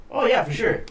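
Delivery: high, eager agreement. Retold or imitated. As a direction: jump at the offer. Retold eager reply.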